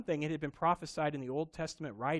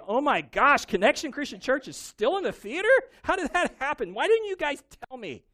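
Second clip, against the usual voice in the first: high, loud, hammed-up surprise; mock shocked God; 11 semitones higher, 11 dB louder than usual. Pastor mocking a surprised God, loud and high. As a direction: play a flustered God caught off guard. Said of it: "he didn't just go one day".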